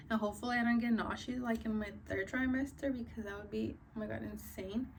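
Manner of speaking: slightly winded, talking through short breaths; a little out of breath while talking. Real, not acted. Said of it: "I'm out of breath already".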